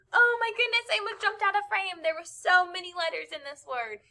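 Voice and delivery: high-pitched playful dismay; playful exasperation. Real, not acted. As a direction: exclaim it high, amused at the effort. Winded joking after jumping spelling.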